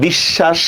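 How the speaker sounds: "বিশ্বাস" as bish-shash, long sh in the middle; doubled consonant. Shown as a demonstration. Teacher proves the doubling to learners, "বিশ্বাস" as bish-shash. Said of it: "দুইবার উচ্চারণ করি".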